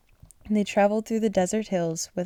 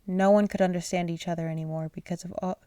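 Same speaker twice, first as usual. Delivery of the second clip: words stretched by a yawn. Real, not acted. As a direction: read through a yawn. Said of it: "I keep yawning".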